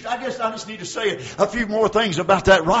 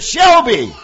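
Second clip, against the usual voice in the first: imitating a crowd calling; 4 semitones higher, 13 dB louder than usual. Crowd calling a name in story.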